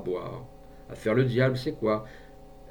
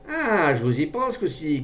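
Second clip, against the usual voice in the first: raised, louder cry of discovery; shouted challenge; 5 semitones higher, 5 dB louder than usual. A narrator's reading. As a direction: call out on catching poachers. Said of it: "cria l'homme".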